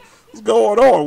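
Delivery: loud, slow mock yell. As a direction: yell it like all caps. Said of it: "Were you yelling at me".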